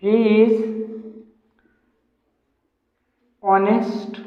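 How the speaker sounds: very slow, word by word with long pauses; slow dictation. Shown as a demonstration. Teacher dictating sentences to students, slow and spaced out. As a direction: spell each word out for the class to copy. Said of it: "teacher dictates example sentences".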